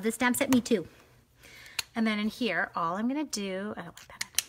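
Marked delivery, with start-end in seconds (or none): 3.8-4.4 muttered under breath, whispered. Real, not acted. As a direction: whisper it to yourself. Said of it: "repeated plainly".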